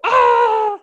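high, loud group cheer sound; class shout. Retold or imitated. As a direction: yell it out like the whole class. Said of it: "everybody had to go".

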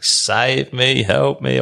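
half-hearted retold holler; mock holler. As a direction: imitate hollering for rescue at talking volume. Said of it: "hollering, saying".

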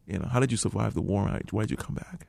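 quiet, tense voicing of the barber; hushed retold question. Barber holding a razor asks him quietly, hushed and tense.

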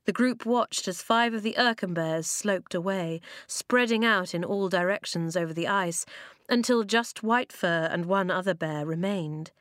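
ordinary delivery

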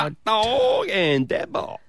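high, drawn out through indigestion; words stretched out by a rising burp. Real, not acted. Co-host echoing the race names, indigestion in the voice. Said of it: "I had a bit of indigestion".

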